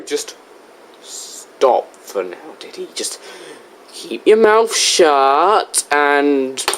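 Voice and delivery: halting, fed-up plea for silence; exasperated. Acted. Host fed up with a rapper.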